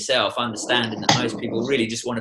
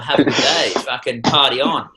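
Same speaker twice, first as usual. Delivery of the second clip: louder, laughing send-off; laughing cheery farewell; 3 semitones higher, 6 dB louder than usual. Retold or imitated. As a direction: toss it off with a grin and a laugh. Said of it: "And then, um".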